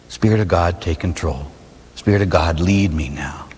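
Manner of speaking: quiet surrender prayer. Shown as a demonstration. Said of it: "I surrender to God's Holy Spirit".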